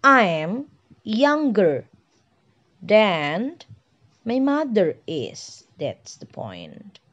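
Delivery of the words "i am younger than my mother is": slow model sentence. Shown as a demonstration. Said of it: "So, my sentence become".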